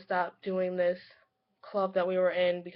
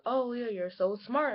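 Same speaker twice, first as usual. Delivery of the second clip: higher, slower imitated compliment; admiring praise; 4 semitones higher than usual. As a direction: mimic someone gushing praise, drawn out. Voicing admiring people's praise.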